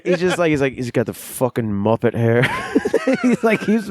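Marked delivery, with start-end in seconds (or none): 0.7-2.4 put-on Irish accent. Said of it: "I don't know why I'm doing Irish accents".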